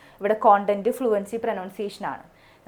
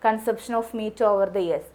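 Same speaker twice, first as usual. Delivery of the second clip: reading the heading slowly; much slower than usual. Shown as a demonstration. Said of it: "ഇപ്പോൾ ഇവിടെ നമുക്ക്".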